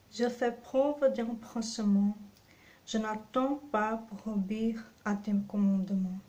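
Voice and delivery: scripture reading. Acted. Preacher reading Psalm 119 to the congregation, measured and reverent. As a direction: read each verse with calm reverence. Reads psalm verses aloud.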